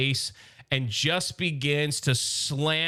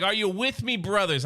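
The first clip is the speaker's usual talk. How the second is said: Soundwave robot voice; 5 semitones higher than usual. Retold or imitated. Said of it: "in that robotic voice".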